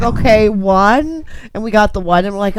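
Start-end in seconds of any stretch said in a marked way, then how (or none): 0.0-1.2 resigned okay. Retold or imitated. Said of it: "You're like".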